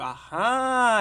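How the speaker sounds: long, high, loud cry of discovery; screamed exclamation. Acted. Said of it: "I started screaming".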